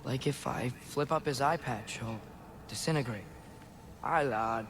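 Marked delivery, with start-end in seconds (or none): 4.0-4.6 a half-hearted Scottish accent attempt; weak Scottish accent. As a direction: try a Scottish accent, not quite landing it. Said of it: "I can't do your accent".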